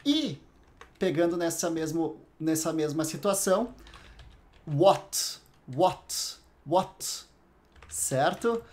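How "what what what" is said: "what" cut off on a clean T, repeated; mute T. Shown as a demonstration. Teacher drills the word for a student, "what" with mute T. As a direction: end each "what" on a stopped T, no CH. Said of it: "o T mudo".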